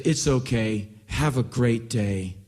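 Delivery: polite send-off, slightly slow; sweet and polite. Acted. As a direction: let them off gently, very politely. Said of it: "the sweetest, most polite voice".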